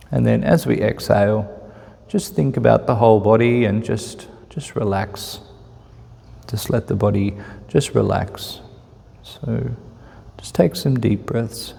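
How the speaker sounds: calm, unhurried meditation guide with long pauses; measured, even guidance, leaving room to breathe; guided meditation. Real, not acted. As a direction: ease listeners into relaxed breath awareness.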